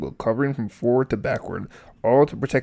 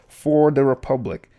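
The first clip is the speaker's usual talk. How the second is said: determined declaration; 2 semitones higher, 5 dB louder than usual. Acted. Obi-Wan's battle cry in story.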